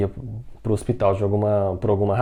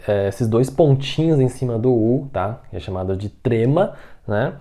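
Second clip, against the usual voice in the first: normal talking voice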